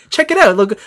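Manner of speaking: high chirpy sales pitch; perky booth girl. Retold or imitated. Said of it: "'Cause she's like".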